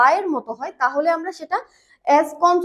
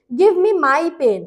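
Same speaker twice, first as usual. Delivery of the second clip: slow model sentence; much slower than usual. Shown as a demonstration. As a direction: Give me my pen said very slowly, word by word. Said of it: "যেমন আমি যদি বলি".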